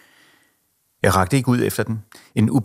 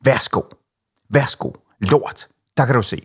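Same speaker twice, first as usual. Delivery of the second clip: raised, half-acted roar; 5 semitones higher, slower than usual. A narrator's reading. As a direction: fling the words at her in a rage. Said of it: "brølede jeg".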